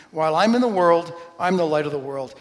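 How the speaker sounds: loud declaration; proclaiming. Acted. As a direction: announce it to the room. Proclaims Jesus' words.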